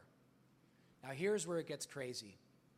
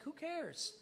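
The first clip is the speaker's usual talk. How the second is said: dismissive; 12 semitones higher than usual. Retold or imitated. Sarah shrugging it off.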